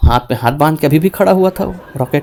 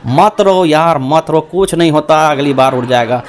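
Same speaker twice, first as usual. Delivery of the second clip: mock consoling; 5 semitones lower than usual. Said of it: "सांत्वना देने लगे".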